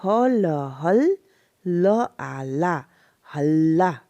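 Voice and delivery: very slowly build हल, then ला, then हल्ला; slow, deliberate spelling-out of हल and ला; broken into syllables. Shown as a demonstration. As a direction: draw out each sound of हल्ला with pauses. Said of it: "दो syllable में break होगा".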